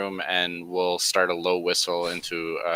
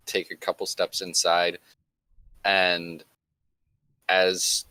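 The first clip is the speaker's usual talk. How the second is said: choppy connection, words dropping out; scrambled voice. Real, not acted. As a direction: speak through a breaking-up line. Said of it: "Your mic is cutting out".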